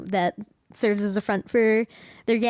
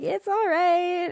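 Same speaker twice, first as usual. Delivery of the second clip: grudging praise; 10 semitones higher, slower than usual. Retold or imitated. Gang humoring Eiji's food.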